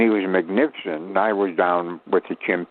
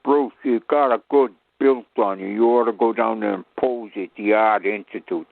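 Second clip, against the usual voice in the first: Chicago tough guy. Retold or imitated. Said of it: "That's the way we used to talk in Chicago".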